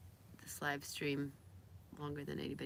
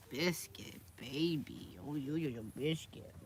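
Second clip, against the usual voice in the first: soft cooing pet talk; doting pet-owner babble; 2 semitones lower, 4 dB quieter, slower than usual. Real, not acted. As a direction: coo fondly at your pet.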